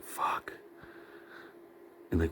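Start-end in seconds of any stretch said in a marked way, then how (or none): 0.0-0.5 mock night-waking whisper; startled whispered curse. Dreamer waking up all sweaty, startled whisper. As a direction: whisper it under the breath, as if just jolted awake.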